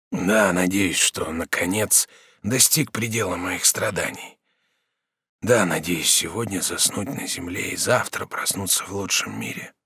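slow, low, fading voice; dying prisoner, slow. Acted. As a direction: weigh each word like a dying man. Prisoner hopes to die.

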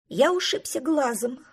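mild whining complaint; whimpering. Acted. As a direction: whine about the hurt eye. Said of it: "подвывал он".

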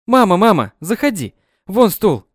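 bustling, upbeat hospital welcome; cheerful. A narrator's reading. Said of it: "бодро ответила". (бодро, громко)

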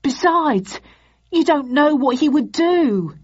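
high-pitched frightened whine; whining. Acted. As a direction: plead it high and scared. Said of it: "he whined".

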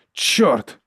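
startled exclamation. A narrator's reading. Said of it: "вигукнув Джизаль".

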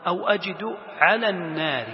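measured recited phrase; Quran recitation. Acted. Teacher citing the verse before explaining, reciting. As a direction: recite it with a long final vowel.

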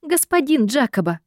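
high, huffy call of his name; high indignant huff. A narrator's reading. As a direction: huff at him, offended. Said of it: "фыркнула я".

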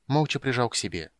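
ordinary delivery, nothing marked

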